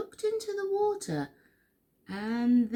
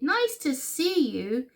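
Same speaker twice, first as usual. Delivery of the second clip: higher hooted greeting; hooting; 5 semitones higher than usual. A narrator's reading. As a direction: call out a welcome, pitched up. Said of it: "and they hooted".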